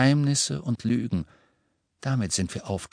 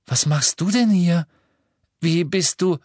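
higher, louder baffled questioning; irritated; 9 semitones higher, 5 dB louder than usual. A narrator's reading. Harry asks Luna how she got here, irritated. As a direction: question them in irritated surprise. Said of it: "sagte Harry irritiert".

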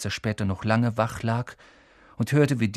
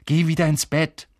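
raised, higher voice in irritation; angry; 5 semitones higher, 5 dB louder than usual. A narrator's reading. Ron sends Hermine away from the portrait hole, angry. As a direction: order her off angrily. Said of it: "sagte Ron zornig".

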